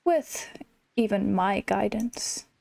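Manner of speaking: a hint of a slow, smug lion king; lightly voiced Scar. Gamer reading Scar's lines to the player, mildly smug. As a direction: drawl it out as a lazy, haughty villain.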